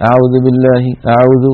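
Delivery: أعوذ said with lips not rounded on the waw; unrounded waw demo. Shown as a demonstration. Teacher imitating students' error: flat waw. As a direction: demonstrate lazy lips on أعوذ. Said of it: "ولا يضم شفتيه عند نطق الواو".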